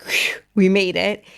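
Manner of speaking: slow, breathy whisper of relief; relieved whisper. Retold or imitated. Mother after the truck leaves, slow relieved whisper. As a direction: let the tension out in a slow whisper.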